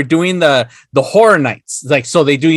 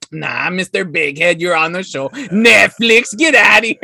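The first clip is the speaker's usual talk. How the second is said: dismissive uncle. Pretend. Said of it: "be like".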